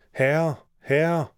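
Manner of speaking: high-pitched storybook alarm call; harp crying out loudly. A narrator's reading. Golden harp calling its master as it is stolen, shouting. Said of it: "harpen råbte ganske højt".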